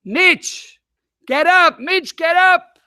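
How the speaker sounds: high urgent calling up to a window. Retold or imitated. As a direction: urgently call him awake at night. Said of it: "I put my hands together and I say".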